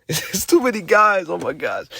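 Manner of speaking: high, laughing exasperation; amused, high-pitched disbelief dropping off. Real, not acted. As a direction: laugh through being overwhelmed. Laughs, overwhelmed by contenders.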